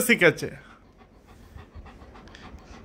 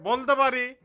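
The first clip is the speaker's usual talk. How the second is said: "বলতে পারি" said much softer, almost under the breath; soft version; 3 semitones higher, 7 dB quieter than usual. Shown as a demonstration. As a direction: drop it right down. Repeats phrase two ways. (নরম স্বরে "বলতে পারি")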